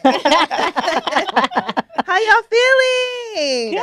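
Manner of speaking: high, loud, stretched-out hype; rally the room; excited call-out. Real, not acted. Host hypes up the guests.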